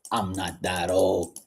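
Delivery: retold indignant mom, drawn out; mildly pissed off. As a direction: slowly protest like an offended mother, understated. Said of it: "She got so pissed".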